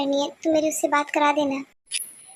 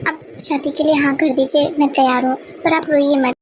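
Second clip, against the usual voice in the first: loud giving in; 5 dB louder than usual. Acted. Son gives in to stop tears.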